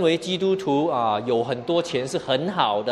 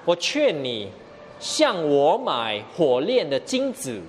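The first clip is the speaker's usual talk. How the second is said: earnest counsel. Acted. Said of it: "耶稣说".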